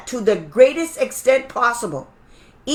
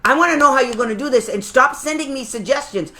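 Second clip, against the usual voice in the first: demanding parent. Pretend. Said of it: "And you tell the school district".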